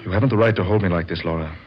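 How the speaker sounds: husband losing patience with his wife; angry outburst. Acted. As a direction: snap it out at her, rushing. Husband demands divorce from wife.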